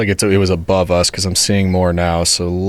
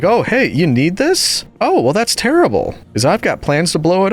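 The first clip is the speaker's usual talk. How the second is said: lightly voiced taunting creeper, higher; mock creeper voice; 9 semitones higher than usual. The creeper taunting the player, mock high smug voice. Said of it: "he was like".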